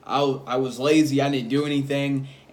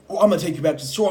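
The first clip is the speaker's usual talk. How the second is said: higher, fast, agitated threat; crazy ranting; 4 semitones higher, 4 dB louder, much faster than usual. Retold or imitated. Driver threatening to end the shift, crazy ranting. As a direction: mimic a worked-up driver ranting. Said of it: "super crazy".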